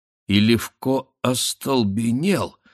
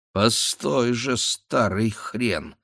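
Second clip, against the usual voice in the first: muttered threat; 3 semitones higher, much slower than usual. Acted. Son vowing revenge after father leaves.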